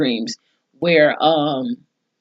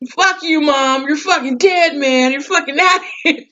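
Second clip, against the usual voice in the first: much higher, hammed-up put-on voice; mock Mike Epps; 10 semitones higher than usual. Recapper imitating Mike Epps telling his mom off, high put-on voice. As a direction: pitch it way up like a cartoon version of him cursing. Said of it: "Mike Evans said".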